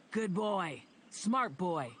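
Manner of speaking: loud happy dog praise; excited praise. A narrator's reading. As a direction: cheer the dog on.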